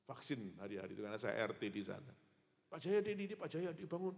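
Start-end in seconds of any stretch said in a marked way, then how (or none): 2.7-4.2 calling to wake him. Retold or imitated. Doctor waking the fainted patient.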